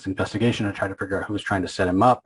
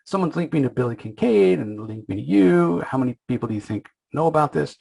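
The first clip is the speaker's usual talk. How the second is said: high-pitched incredulous outburst; retold panic, pitched high and speeding up at the end; mock flipping out; 7 semitones higher than usual. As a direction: imitate a man losing it, voice jumping up. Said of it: "Burke is just flipping out".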